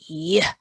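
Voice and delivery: short "yuh" pushed out; shot-putter effort sound. Shown as a demonstration. Teacher mimics throwing heavy shot, effortful yuh. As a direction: release "yeah" like heaving a heavy ball. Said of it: "is the shot putter sound".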